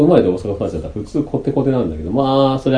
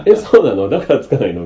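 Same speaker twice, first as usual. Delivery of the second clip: mock surprise; 5 dB louder than usual. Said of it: "みたいな".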